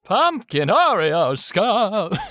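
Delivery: high, slow mock-amazed; drawn-out high reaction. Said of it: "that's the only way I react to everything".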